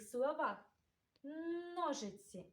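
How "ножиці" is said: "ножиці" with a long hard first N; hard N highlighted. Shown as a demonstration. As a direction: linger on the н opening "ножиці". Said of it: "Твердий приголосний звук Н".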